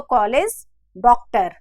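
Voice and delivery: the right aw in कॉलेज and डॉक्टर; correct pronunciation. Shown as a demonstration. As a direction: say कॉलेज डॉक्टर with the rounded half-moon vowel. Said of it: "तो उच्चारण में फर्क है".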